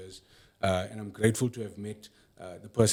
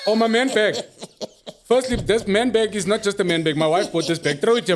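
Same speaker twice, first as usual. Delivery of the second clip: laughing; 10 semitones higher, 6 dB louder than usual. Real, not acted. Laughing about the bag.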